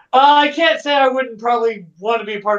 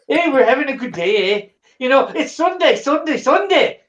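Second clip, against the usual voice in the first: hammed-up Canadian with a laugh, eh; light mock Canadian, Sunday chant rising; half-hearted Canadian accent impression; 3 semitones higher than usual. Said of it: "trying to get my Canadian going on".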